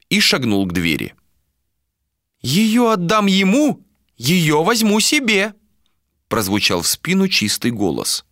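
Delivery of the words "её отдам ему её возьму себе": put-on high, slow prophetic old voice; old woman prophesying. A narrator's reading. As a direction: chant it like a blind seer.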